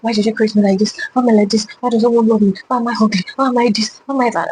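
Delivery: mildly anguished plea, questions tumbling out; retold tearful prayer. Praying to God in the middle of the night, mildly pleading. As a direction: lightly act out a crying prayer, pitch creeping up. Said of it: "I just started crying".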